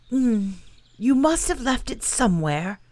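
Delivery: a bear trying to help; helpful bear. Acted. Pooh suggests.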